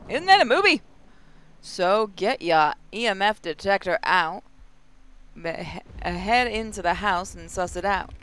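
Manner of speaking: put-on mild Australian accent, instructive. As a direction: give orders like a casual Aussie boss. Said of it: "they're Australian".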